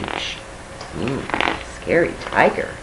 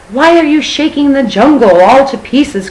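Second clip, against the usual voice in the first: high, loud squawking parrot voice; parrot cry; 9 semitones higher, 6 dB louder than usual. Acted. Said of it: "cried the parrot".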